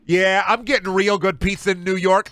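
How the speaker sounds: lightly lampoon a pizza snob bragging; mock snob. Streamer mocking a New York pizza snob, smug put-on voice.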